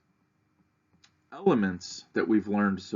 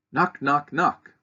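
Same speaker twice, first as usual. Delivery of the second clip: firm knocking; 6 semitones higher, 6 dB louder, slower than usual. Shown as a demonstration. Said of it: "it's called Visitor".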